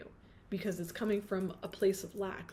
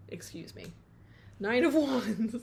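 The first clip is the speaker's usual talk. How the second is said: normal talking voice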